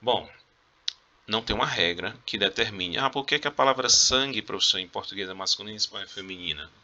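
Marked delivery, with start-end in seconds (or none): 3.0-6.7 lightly voiced student. Student asking professor about word gender, lightly mimicked.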